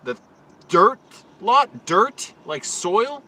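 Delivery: high, loud, incredulous questions; smartass disbelief. Retold or imitated. Driver mocking the guard's dirt lot directions, high incredulous. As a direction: play dumb to needle him. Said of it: "it sounded like I'm being a smartass".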